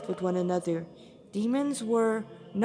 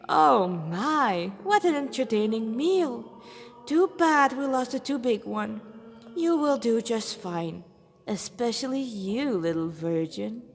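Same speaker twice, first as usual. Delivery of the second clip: lightly voiced leering villain; a hint of a demon savouring his meal; gloating demon. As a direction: demon taunting the trapped siblings, leering.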